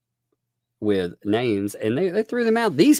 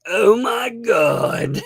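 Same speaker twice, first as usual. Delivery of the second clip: loud, high, slow Oh my God; shouted disbelief; 12 semitones higher, 5 dB louder, much slower than usual. Real, not acted. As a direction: cry out in amazed disbelief. Laughing disbelief at the story.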